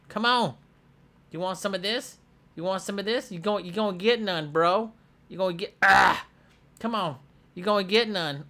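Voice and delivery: high, cocky taunting, pushing the zombie to fight; mock trash talk. Gamer taunting a zombie he is fighting, cocky mock trash talk. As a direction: taunt him like a playground tough guy.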